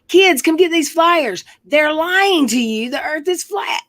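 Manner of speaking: high, drawn-out mock shout to a crowd of kids; retold screaming.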